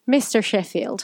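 light Irish lilt attempted on the name; Irish accent. Shown as a demonstration. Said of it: "Can you say Mister Sheffield with an Irish accent".

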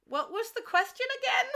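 high-pitched mock bewilderment; lost and confused. Goldie finally given her turn, lost and confused. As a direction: ask it high, as if completely lost. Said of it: "She's just lost".

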